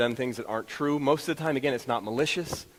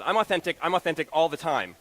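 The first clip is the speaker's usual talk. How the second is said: upset insistence; 4 semitones higher, 3 dB louder than usual. Retold or imitated. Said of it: "she was, like, upset".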